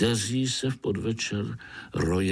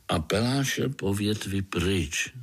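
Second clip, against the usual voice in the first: ordinary delivery, nothing marked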